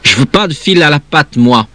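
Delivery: put-on high-pitched childish protest. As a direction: object like an indignant little kid. Child defying mother in story.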